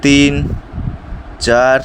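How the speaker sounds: counting reps mid-exercise; strained counting between reps; doing push ups. Real, not acted. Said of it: "আজকে আমাদেরকে তেইশটা push up মারতে হবে".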